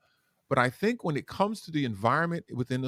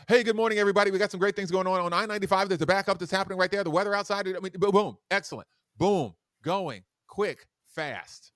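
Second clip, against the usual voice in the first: daytime DJ voice; 6 semitones higher than usual. Shown as a demonstration. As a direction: sell the traffic report with hype. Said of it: "That's the daytime D J voice".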